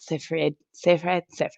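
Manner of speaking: "Seyfried" tried, said "sigh-frid", fading out; trying and failing at "Seyfried"; struggling to say it. Shown as a demonstration. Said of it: "My mouth does not move like that".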